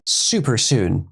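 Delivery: slow, mocking repeat; mocking echo. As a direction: parrot it back slowly and mockingly. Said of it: "We'll see you super soon".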